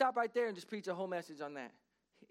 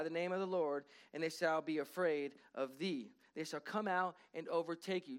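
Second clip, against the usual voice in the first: solemn scripture reading. Acted. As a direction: proclaim each blessing deliberately.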